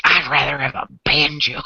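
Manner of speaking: laughing quote. Retold or imitated. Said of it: "Peachy's like".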